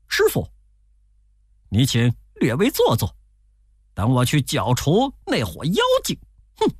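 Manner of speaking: high call then a confident grunt; lightly voiced Monkey King. A narrator's reading. Monkey King tells his master to wait, lightly voiced. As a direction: set off boldly, a touch of swagger.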